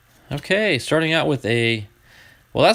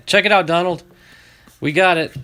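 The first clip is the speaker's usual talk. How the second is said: excited; 4 semitones higher, 5 dB louder than usual. Real, not acted. Excitement over the duplicate.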